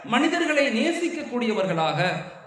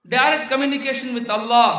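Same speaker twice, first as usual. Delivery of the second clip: slow emphatic; 4 dB louder, much slower than usual. Acted. Preacher stresses key phrase.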